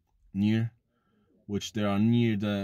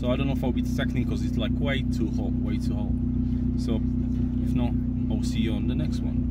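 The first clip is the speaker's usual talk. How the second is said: shouting over machinery; 5 dB louder than usual. Real, not acted. Still talking over the engine.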